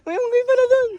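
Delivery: high, laughing surprise. Real, not acted. Laughing at monkey sighting.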